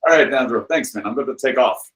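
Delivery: lightly imitated Russian friend's accent; a hint of Russian in the mimicry. Russian friend says thanks as he leaves, mock Russian accent. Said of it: "a very thick Russian accent".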